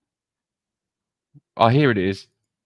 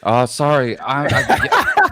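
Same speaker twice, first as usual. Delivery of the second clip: embarrassed laugh; 8 semitones higher, 8 dB louder, slower than usual. Real, not acted. Caught mistaking Norwegian for American.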